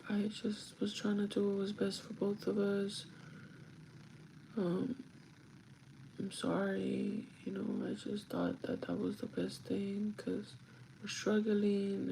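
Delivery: slow, softened, mildly tearful retelling; retold tearful apology. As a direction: gently imitate someone apologising through tears. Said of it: "And he started crying".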